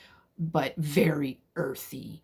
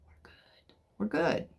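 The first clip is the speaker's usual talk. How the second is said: whispered reassurance; 4 dB quieter than usual. Retold or imitated. Reassuring herself in the woods.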